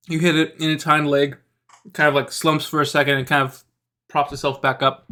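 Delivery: talking while chewing; words round a bite of food; mouth full. Real, not acted. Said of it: "whatever you're eating".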